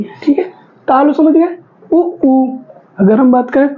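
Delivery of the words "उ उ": उ short then उ long, lips rounded; lip vowels. Shown as a demonstration. Teacher showing students rounded-lip vowels. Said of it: "कहाँ से आ रहे हैं".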